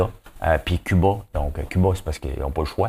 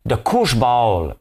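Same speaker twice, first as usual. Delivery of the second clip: dramatic reveal; 3 semitones higher, much slower than usual. Acted.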